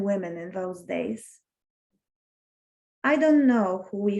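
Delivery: measured poem recital with pauses between lines; poem reading. Acted. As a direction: read it line by line, letting each phrase rest. Reads a poem aloud.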